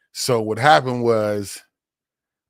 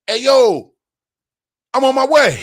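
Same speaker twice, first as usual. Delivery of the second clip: imitating homeboy; 12 semitones higher, 5 dB louder than usual. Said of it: "he hit me".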